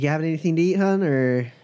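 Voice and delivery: friendly waitress checking in; diner waitress. Acted. GM voices bartender again.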